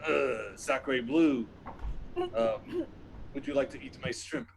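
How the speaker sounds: put-on Sacre Bleu drawn out very slowly and falling, in a French accent; a slow, savoured French Sacre Bleu. Frenchman offering his shrimp in a slow French accent. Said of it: "I love your accent".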